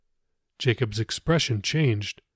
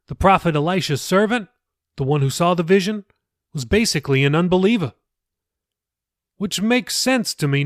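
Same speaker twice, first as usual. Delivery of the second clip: a touch higher, earnest explaining pastor; lightly voiced pastor; 4 semitones higher than usual. Pastor patiently explaining scripture to Jacob, lightly raised voice. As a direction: gently lift the voice for the pastor. Pastor recounts his doubt.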